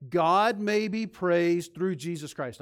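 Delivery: loud, slow unison recital of the verse; leading a recitation. Real, not acted. Pastor leads congregation in reciting the verse, loud and slow. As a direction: lead the church through it word by word. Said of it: "say it with me".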